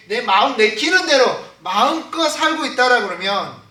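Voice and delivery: loud, urgent sermon delivery; sustained emphatic preacher's exhortation; forceful preaching. Real, not acted. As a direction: pile up the charges, driving each one home.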